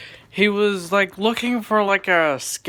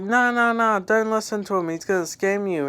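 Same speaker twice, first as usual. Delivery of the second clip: higher, louder frantic no no no; alarmed warning; 6 semitones higher, 3 dB louder than usual. Retold or imitated. Mom warning the lobby about the scammer, loud alarmed. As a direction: mom shouting to stop the others getting scammed. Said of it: "the mom was like".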